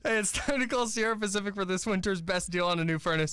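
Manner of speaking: lightly voiced old New York lady; teasing New York-accented ad read; mock New York accent. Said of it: "like, New York lady".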